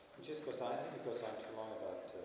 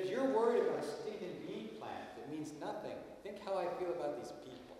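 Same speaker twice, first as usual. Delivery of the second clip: impassioned God; 5 semitones higher than usual. Retold or imitated. God telling Jonah how he feels about the people, impassioned. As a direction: plead for the people with feeling. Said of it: "some of these things are so emotional".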